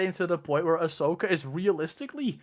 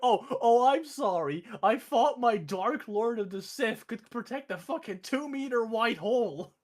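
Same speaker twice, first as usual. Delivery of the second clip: sarcastic rant; 6 semitones higher than usual. Retold or imitated. Emperor sarcastically berating Vader.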